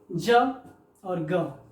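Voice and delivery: the two sounds ज and ग, said slowly one by one; name the sounds ज and ग clearly. Shown as a demonstration. Teacher shows students the two sounds of G, slowly. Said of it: "दो उच्चारण होता है".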